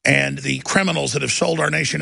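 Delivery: dramatic show-opening rant; paranoid late night rant. Real, not acted. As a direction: open the show like a crusade.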